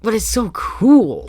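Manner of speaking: breathy hushed marvel; high, slow whispered wonder; awed whisper. Real, not acted. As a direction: whisper it like a secret thrill. Excited aside to self.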